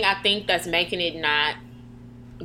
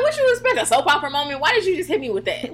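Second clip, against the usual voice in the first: put-on mouthy kid; 7 semitones higher than usual. Kid talking back to mama, mock-indignant sass. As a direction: imitate a kid sassing back. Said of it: "I was the kid to talk like".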